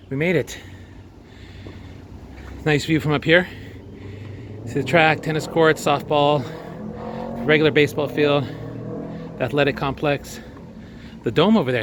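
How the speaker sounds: breathless after the climb; winded, talking between breaths. Real, not acted. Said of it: "as I catch my breath".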